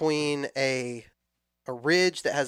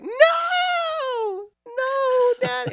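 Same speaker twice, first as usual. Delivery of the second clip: much higher, loud wailing no; crying child; 5 dB louder, much slower than usual. Retold or imitated. Five-year-old begging dad not to leave, crying shout. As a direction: cry out like a little girl begging. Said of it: "she starts to cry".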